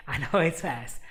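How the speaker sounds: amused laugh through the words; real chuckle as the words come out. Real, not acted. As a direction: laugh while admitting it.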